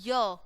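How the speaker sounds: य as "yuh", glide plus short vowel; letter sound demo. Shown as a demonstration. Teacher showing the sound of Y, letter sound demo. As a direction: sound out य on its own. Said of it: "sound कैसी आएगी वाई की".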